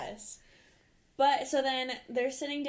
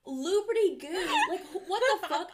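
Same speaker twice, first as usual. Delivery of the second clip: laughing; 7 semitones higher, 5 dB louder than usual. Real, not acted. Disbelief at the show's line.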